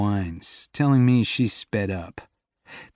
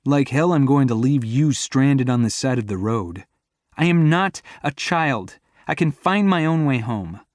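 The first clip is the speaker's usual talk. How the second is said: louder, raised quarrel voices; heated argument; 4 semitones higher, 4 dB louder than usual. Acted. Arguing on the roadside at night, heated. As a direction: bicker back hard.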